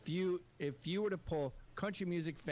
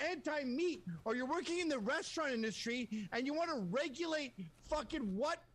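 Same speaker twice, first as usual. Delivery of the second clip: impassioned, higher-pitched tirade; heated rant; 6 semitones higher than usual. Real, not acted. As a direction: argue it insistently, pitch riding high. Heated free speech rant.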